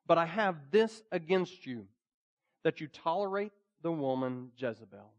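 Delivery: measured, emphatic Bible reading from the pulpit; scripture reading. Real, not acted. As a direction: read it out solemnly, phrase by phrase. Reads the Bible passage aloud.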